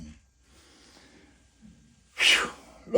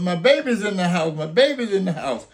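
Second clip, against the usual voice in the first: pleading scream; 4 semitones higher than usual. Retold or imitated. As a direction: beg desperately, rising on please. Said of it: "you hear them hollering and screaming".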